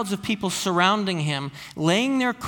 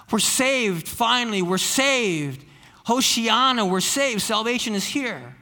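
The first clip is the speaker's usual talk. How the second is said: lightly voiced jubilant crowd, pitch lifted a little; a mild hint of a crowd cheering that rescue has come; joyful crowd cry; 4 semitones higher than usual. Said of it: "these people who were shouting their hosannas".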